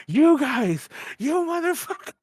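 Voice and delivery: half-hearted angry yell; mock angry. Drunk host yelling at friends walking in, mock angry. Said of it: "I just start getting mad".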